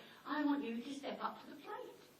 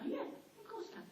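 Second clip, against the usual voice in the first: laughing; 12 semitones higher, 5 dB quieter, much faster than usual. Retold or imitated. Confident reply, laughing.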